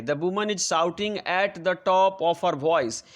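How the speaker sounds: very slow, each word spaced out for the class; slow dictation. Shown as a demonstration. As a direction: read it out word by word as if dictating to pupils. Teacher dictating full sentence. (बहुत धीरे, शब्द-शब्द बोलकर लिखवाना)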